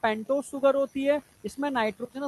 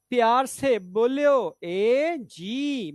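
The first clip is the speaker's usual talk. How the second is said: slow poem recital; much slower than usual. Pretend. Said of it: "काका हाथरसी की poem".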